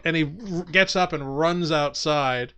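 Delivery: normal talking voice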